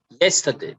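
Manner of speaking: "yesterday" with YES stressed, then falling; stress on first syllable. Shown as a demonstration. Teacher reading out the first column, first-syllable stress on "yesterday". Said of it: "so we stress on the first".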